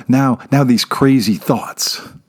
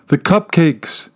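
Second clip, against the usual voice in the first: calling after him; 6 semitones higher, slower than usual. A narrator's reading. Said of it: "she calls after him".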